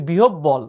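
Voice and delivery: "বিহব বল" with a hard doubled b in the middle; common mispronunciation. Shown as a demonstration. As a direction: say "বিহব বল" the common wrong way, b-b run together. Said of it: "উচ্চারণ আমরা ভুল করি".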